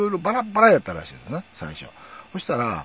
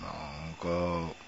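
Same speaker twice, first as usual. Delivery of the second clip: normal talking voice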